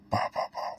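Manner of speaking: quiet, voiceless mimed blows; imitated hitting noises. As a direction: puff out soft rapid impact sounds. Imitates blows while venting.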